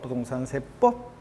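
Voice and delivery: "부동산 세법" slow and low, ending on a separate 법; 끝음절 강조. Shown as a demonstration. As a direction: set off the last syllable 법 in "부동산 세법". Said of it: "이거 못하면 음치라고 했잖아요". ("부동산 세법"에서 끝의 "법"을 끊어서)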